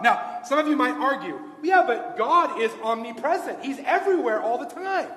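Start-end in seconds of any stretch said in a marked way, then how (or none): 1.6-5.1 slightly raised, louder arguing voice; emphatic protest, lightly acted; mock objection. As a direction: push back loudly as an imagined doubter.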